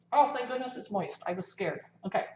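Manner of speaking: talking through a mouthful of muffin; mouth full. Real, not acted. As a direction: chew and talk with a mouth full. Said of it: "sorry to talk with my mouth full".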